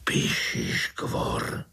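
slow, breathless whispered name; terrified uncle whispering; frightened whisper. Acted. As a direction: whisper it so the beast won't hear. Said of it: "zašeptal strýček".

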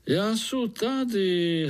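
high, slow mole voice; mole answering. Acted. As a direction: call back from far away.

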